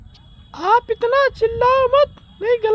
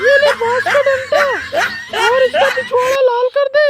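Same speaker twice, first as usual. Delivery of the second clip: heated, half-laughing rant; angry outburst. Acted. Mother-in-law urging her son to beat his wife, heated rant. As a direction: rail at him, hand him the stick.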